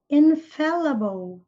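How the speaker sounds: "Infallible" slowly, stress on FAL; careful pronunciation. Shown as a demonstration. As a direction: model "Infallible" slowly for learners. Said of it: "prestem atenção na pronúncia".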